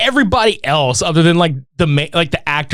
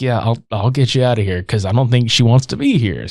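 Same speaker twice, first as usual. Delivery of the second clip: concerned; 6 semitones lower than usual. Retold or imitated. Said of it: "he looked concerned".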